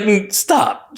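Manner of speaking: high mock disbelief; incredulous mom. Mom reacting to son's Stanford news, incredulous. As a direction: imitate mom refusing to believe it. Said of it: "just started freaking out".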